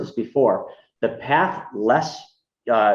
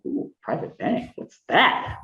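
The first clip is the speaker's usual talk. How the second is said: curious surprise; 7 semitones higher, 4 dB quieter, slower than usual. Retold or imitated. Intrigued retelling to Mike.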